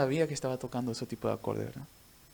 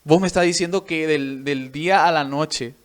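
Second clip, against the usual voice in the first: retold indignant disbelief; 2 semitones higher, 5 dB louder than usual. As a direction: imitate an offended teacher refusing to believe it. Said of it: "recuerdo que se fue enojado".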